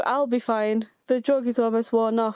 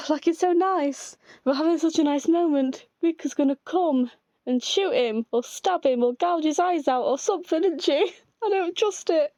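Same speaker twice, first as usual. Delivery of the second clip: fretting higher and higher, half laughing; anxious fretting; 7 semitones higher than usual. Real, not acted. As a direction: fear the nice moment will be ruined. Fretting that Rika will attack.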